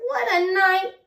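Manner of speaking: high, chirpy bird voice; twittering wren. Acted. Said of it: "twitters wren".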